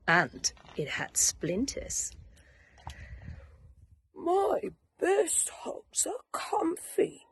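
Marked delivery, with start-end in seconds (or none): 4.1-7.3 dreamy thought. Acted. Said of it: "thought Douglas".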